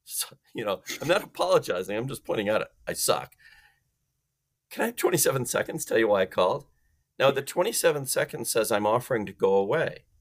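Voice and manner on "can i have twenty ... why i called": light curious lilt; playful and curious. Shown as a demonstration. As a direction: ask lightly and curiously, fast. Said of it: "change your voice to a playful and curious voice".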